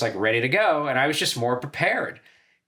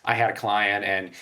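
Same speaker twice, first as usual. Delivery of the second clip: slightly lowered comedy manager impression; understated, low-key manager voice counselling a client; Barry Katz; 4 semitones lower than usual. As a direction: lightly imitate a manager dispensing career advice. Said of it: "I was doing him going".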